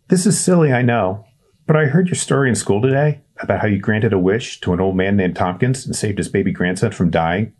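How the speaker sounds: put-on high, hesitant kid voice; a nervous boy calling down a well; shy boy Winston. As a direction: Winston introducing himself awkwardly.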